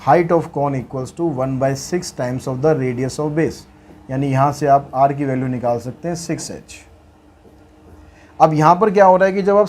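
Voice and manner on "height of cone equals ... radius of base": slow, deliberate reading of the problem; word-by-word dictation pace; dictating the question. Acted. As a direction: read it out slowly so students can write. Restates formula slowly.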